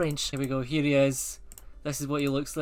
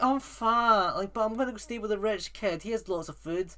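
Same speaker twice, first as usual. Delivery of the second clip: higher-pitched voice for a greedy puppy; Butterball; 4 semitones higher than usual. Acted. Fat puppy explaining where he's staying, lightly voiced. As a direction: lightly put on an eager pup. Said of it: "Butterball's like".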